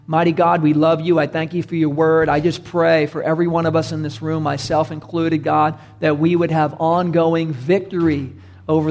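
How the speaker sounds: tag. Real, not acted. Leads closing prayer.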